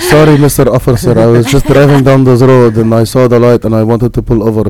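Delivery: put-on light Arabic accent, apologetic to cop; nervous driver with a hint of an Arabic accent. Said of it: "if I threw my accent out there".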